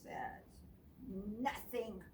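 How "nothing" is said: grumbling. Acted. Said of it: "grumbles Bruce".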